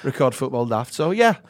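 put-on northern English accent. Shown as a demonstration. Actor shows host his TV role, northern English accent. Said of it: "Can you do your accent from your T V show".

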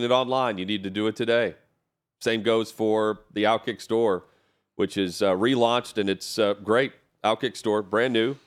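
upbeat sponsor read, clear and steady. Acted. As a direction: sell the store deal to listeners. Live ad read for store.

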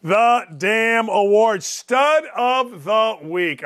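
slow, drawn-out award announcement. Pretend. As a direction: stretch each word like a big reveal.

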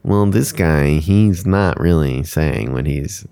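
slow, halting put-on complainer; lightly imitated slow whiner; Colton. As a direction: drag it out like someone complaining. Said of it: "Is that what Colton sounds like?".

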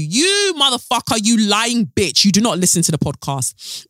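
high, slowed cursing at the liar; angry outburst. Real, not acted. Outburst at lying commenter.

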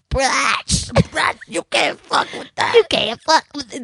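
put-on breathy baby-voice purr, whispered. Shown as a demonstration.

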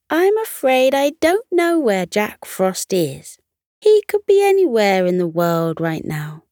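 kindly character voice with high, lilting starts; Ola. A narrator's reading.

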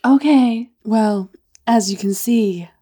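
lightly acted teasing reveal; unhurried flirtation in a put-on accent; Martha May. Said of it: "Martha May".

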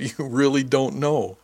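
drawn-out amused disbelief; laughing disbelief. A narrator's reading. Crewmate amazed he doesn't know the shop, amused. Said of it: "She laughed".

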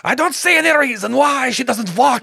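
high, loud mad doctor voice; mad scientist. Acted. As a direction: read it like a crazed doctor. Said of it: "he was quoted as saying".

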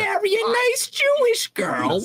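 high, shrill-pitched nagging Jewish mom; Jewish mother voice. Retold or imitated. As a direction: shriek it like a scandalized Jewish mother. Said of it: "That's the Jewish mother voice".

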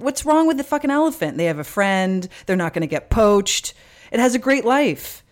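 heated, insistent defence of the elephant plan; real defensive outburst. Real, not acted. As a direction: push back hard, half laughing. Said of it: "I don't know why you got so defensive".

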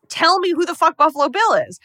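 pushed up high and loud, half-acted; mock-angry Clarice demand. Clarice demands the killer's name from Hannibal, loud and high.

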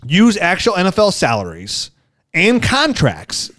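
upbeat sponsor read, leaning on the brand name. Acted. Host reading the sponsor spot to listeners, upbeat ad voice. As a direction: sell it like a podcast ad spot.

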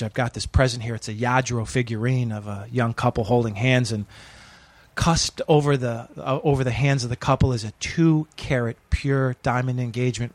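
sincere setup before the twist; mock heartfelt message. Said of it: "I look into the camera, and I go".

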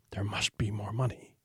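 an eerie unvoiced whisper. A narrator's reading. The house itself whispering the secret phrase, hushed and unvoiced. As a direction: breathe the words like a secret voice in the walls. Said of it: "a voice would start whispering".

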